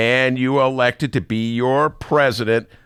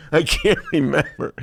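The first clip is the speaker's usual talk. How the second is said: higher, laughing mock amnesia; mock forgetful Trump; 8 semitones higher than usual. Host echoing the forgetful Trump bit with a laugh. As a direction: feign forgetting, half laughing. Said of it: "imitation of Donald Trump".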